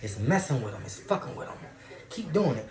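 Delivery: a devil gloating over the agitated man. Retold or imitated. Devil egging his demons on, low and sly. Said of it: "The devil's like".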